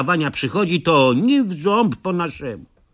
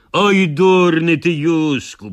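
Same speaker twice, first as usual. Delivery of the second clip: scolding; 2 semitones higher, 4 dB louder, slower than usual. Acted. Narrator scolding Józek.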